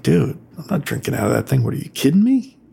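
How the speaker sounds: fast whispered disbelief; hushed, half-whispered refusal; mock aside, quick and breathless; incredulous whisper. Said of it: "And I was like".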